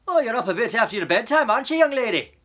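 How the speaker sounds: loud, gruff, amused officer; gruff policeman. A narrator's reading. Policeman teases Coraline about her bedtime, loud and gruff. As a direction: boom it out, humoring a child. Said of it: "said the policeman".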